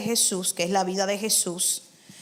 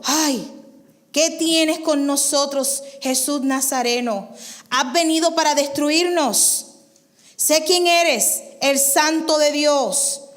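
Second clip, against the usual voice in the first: louder, slower demon cry; 4 semitones higher, 3 dB louder than usual. Acted. Unclean spirit shouting at Jesus, loud. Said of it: "que dio voces".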